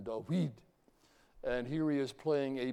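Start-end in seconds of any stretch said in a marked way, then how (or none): 0.0-0.5 David said as TAH-wee with a t and w; David as they said it back then; ancient David. Shown as a demonstration. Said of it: "or they would have said back then".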